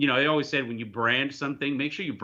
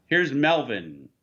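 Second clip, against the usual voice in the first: slow, lightly voiced emcee introduction; a hint of casino showbiz; mock lounge announcer; 4 dB louder, much slower than usual. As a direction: stretch out a pretend act's name. Second mock lounge act introduction.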